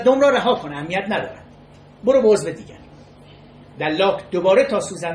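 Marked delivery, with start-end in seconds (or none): 0.0-2.8 moderately loud, retold cry of protest; retold shout. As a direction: imitate a protesting shout, louder than the narration. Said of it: "فریاد زد".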